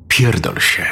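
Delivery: restrained creature's howl; a hint of a monstrous wail. A narrator's reading. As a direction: curse like an enraged thing, only mildly howled. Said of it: "To coś zawyło".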